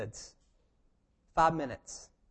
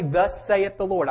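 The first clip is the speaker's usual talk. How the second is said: slower, louder mock pronouncement; mock King James prophet; 4 semitones higher, 5 dB louder, slower than usual. Preacher mocking churchgoers who prophesy in archaic English, mildly pompous pronouncement. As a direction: intone it slowly like a would-be prophet. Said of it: "don't start acting that way".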